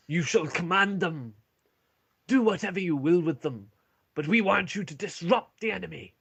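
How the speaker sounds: rally the troops with gravity; dwarf commander's address. Acted. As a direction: Turek tasking the party with their mission, solemnly. Turek resumes his briefing.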